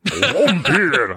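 laughing attempt at "Vampire" ending in "-peer"; trying the pronunciation. Shown as a demonstration. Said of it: "I'll do it every time".

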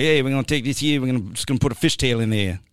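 lightly voiced East Coast gangster; a hint of mock East Coast tough guy; East Coast gangster accent. Host imitates jambalaya cook, slipping into East Coast gangster accent. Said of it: "like an East Coast gangster".

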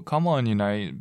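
put-on a calm parent gently coaxing a child; calm request. Shown as a demonstration.

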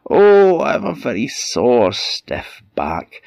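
troll woman groaning, high then fading; crafty troll faking a sore back; fake sore troll. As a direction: put on a pained old troll voice. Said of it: "troll woman feigns sore back".

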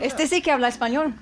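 Spanish spoken in a Spanish accent. Shown as a demonstration. Giving the comic an example, Spanish accent. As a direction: rattle it off as a Spanish speaker. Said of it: "say it in an accent".

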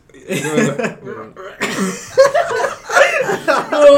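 chirping cricket noise like a muffled frog; croaky imitation of a cricket chirp. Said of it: "that sounds like a muffled frog".

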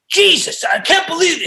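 high, mock disbelief; lightly voiced fed-up agent; exasperated manager. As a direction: sigh it out like an annoyed manager.

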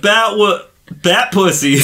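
mock excited cry. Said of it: "it's just like".

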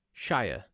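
Shire said in full, like "shyer"; American pronunciation. Shown as a demonstration. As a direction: say Shire with a long "eye" vowel. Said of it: "what you tend to do in America".

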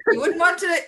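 put-on high-pitched, joking Irish accent. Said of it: "In my Irish accent".

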